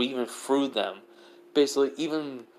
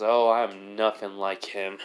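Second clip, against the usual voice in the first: cool reply; 4 semitones lower, slower than usual. Acted. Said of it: "Naruto just says".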